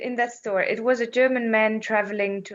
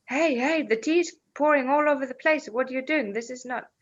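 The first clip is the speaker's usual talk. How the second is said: higher, startled mock protest; lightly voiced flustered traveller; alarmed outburst; 4 semitones higher than usual. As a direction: imitate a man watching tea spill everywhere. German guy alarmed at overflowing tea.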